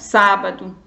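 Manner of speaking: sábado with the SÁ stressed; stress on first syllable. Shown as a demonstration. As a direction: lean on the opening syllable of sábado. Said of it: "Qual é a sílaba tônica".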